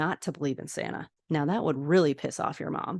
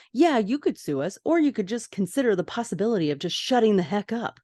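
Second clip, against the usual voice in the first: mildly heated comeback, higher at first; retold curt retort; 4 semitones higher than usual. George answers the woman threatening to sue, mock exasperated. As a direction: play a fed-up retort, lightly acted.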